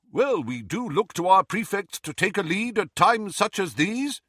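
lightly voiced pompous prefect; pompous Percy. George mocking Percy's pompous prefect tone. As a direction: put on a mildly pompous manner. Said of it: "a good imitation of Percy's most pompous manner".

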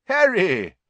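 high, loud, pleased hail; smiling greeting. A narrator's reading. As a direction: greet him with an audible smile. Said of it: "he said, smiling".

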